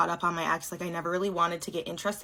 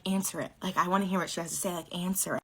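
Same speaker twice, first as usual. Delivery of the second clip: soft egging on; 6 dB quieter than usual. Retold or imitated. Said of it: "so I'm like".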